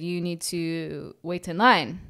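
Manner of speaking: slow, firm, no-nonsense; direct and firm. Retold or imitated. Customer telling a pharmacy line cutter to wait, slow and firm. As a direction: lay down the rule to the line cutter. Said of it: "I said it very directly, firmly".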